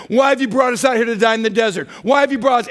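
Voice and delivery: loud, high mocking wail; mock whining. Preacher imitates Israelites' repeated grumbling with a loud, high wail. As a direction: ham up the complaint, pitched high and loud. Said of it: "Eight times they've gotten to a place".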